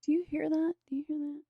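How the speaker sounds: high hushed mock wonder; playful dramatic hush. Mock dramatic bit about rain.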